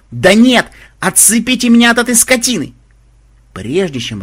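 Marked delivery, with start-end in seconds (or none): 0.1-2.7 high, loud plea for help; desperate yell. Acted. Mahmud caught in the stirrup, desperate high yell. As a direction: holler to be freed, frantic. Dragged rider yelling for help.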